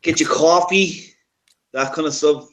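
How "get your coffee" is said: mock Southern. Southern drawl parody.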